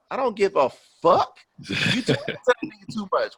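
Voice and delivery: high-pitched, heated retort; retold anger. Man retelling his retort to his date, mad. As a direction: snap back like an annoyed boyfriend, retold. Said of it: "I was so mad after the movie".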